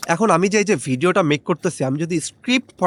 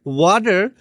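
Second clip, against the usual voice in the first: American accent. Shown as a demonstration. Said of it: "in American accent".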